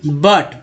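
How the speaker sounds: बट with a short neutral vowel, "but"; short, clear "but" for बट; correct reading. Shown as a demonstration. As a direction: say बट to rhyme with "cut". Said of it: "यानी कि अ हो गया बट".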